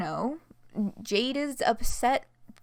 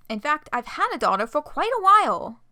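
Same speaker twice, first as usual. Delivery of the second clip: high, cutesy uwu voice, louder; 4 semitones higher, 6 dB louder than usual. Acted. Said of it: "needing to do the Uwu voice".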